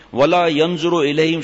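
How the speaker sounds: slow, measured Arabic quotation; Arabic scripture recitation. Real, not acted. Preacher citing punishments for covering ankles, slow recitation. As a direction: draw out each Arabic word formally.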